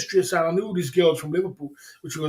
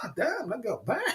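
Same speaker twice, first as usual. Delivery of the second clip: awed whisper; 5 semitones higher, 8 dB quieter than usual. Retold or imitated. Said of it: "I was like".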